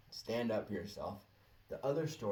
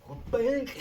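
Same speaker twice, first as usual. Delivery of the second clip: loud, much higher bang; punch sound effect; 10 dB louder than usual. Acted. Acting out the punch on the coworker, loud and high. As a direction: shout the punch out.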